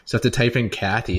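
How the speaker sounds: ordinary talk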